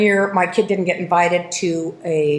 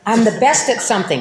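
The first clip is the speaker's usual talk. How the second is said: laughing; 3 semitones higher than usual. Retold or imitated. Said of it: "I was like".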